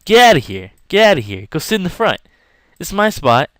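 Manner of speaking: high, loud shove-off yell; pretend yelling. To the guys in his seat, a loud pretend yell. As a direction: bark them out of your seat. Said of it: "I would've yelled so hard".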